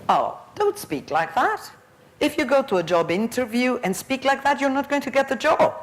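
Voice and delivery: high-pitched admonishing teacher quote; teacher's warning. Retold or imitated. Trainee teacher correcting a pupil's rapper accent, high-pitched admonishing. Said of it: "And the teacher says".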